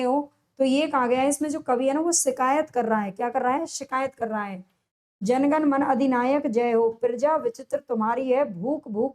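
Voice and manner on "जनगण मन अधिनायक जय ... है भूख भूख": poem recitation. Acted. Reads poem lines aloud.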